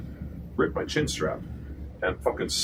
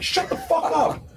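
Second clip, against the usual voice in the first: high, slow, loud yell; high-pitched mock fury, drawn out; retold yelling; 5 dB louder, slower than usual. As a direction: stretch out an acted angry shout. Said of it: "I start yelling at Trey".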